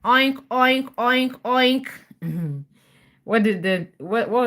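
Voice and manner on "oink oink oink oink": pig oinks. Acted. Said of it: "they heard a noise".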